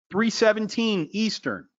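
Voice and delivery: calling the time out high and eager; excited trader calling out the time; real yelling. Real, not acted. Trainer calling the time to the class, eager and high. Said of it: "Why am I yelling?".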